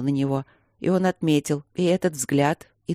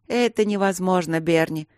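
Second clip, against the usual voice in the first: condescending; 3 semitones higher than usual. Acted. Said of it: "снисходительно пояснила Рита".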